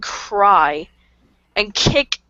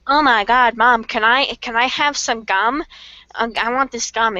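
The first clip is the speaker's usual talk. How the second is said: put-on begging child; 3 semitones higher than usual. Kid asking mom for gum at Walmart, pleading. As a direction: plead like a kid wanting a treat.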